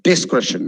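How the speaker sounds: Discretion as "dis-KRESH-un"; short E in Discretion; correct pronunciation. Shown as a demonstration. Teacher correcting the example, Discretion pronounced correctly.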